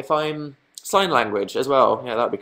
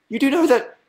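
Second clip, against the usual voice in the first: mildly mocking, higher-pitched disbelief; incredulous questioning; 7 semitones higher than usual. Friends staring at him over pickles, imitated incredulity. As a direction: imitate a friend carefully checking you know.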